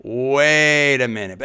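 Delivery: slow, deliberate "Wait a minute" with each word weighted; drawn-out emphasis. Acted. Host repeating his objection to the reporter, slow and pointed. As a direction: stretch it out to make them stop and think. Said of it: "that's the talk show host and me coming out".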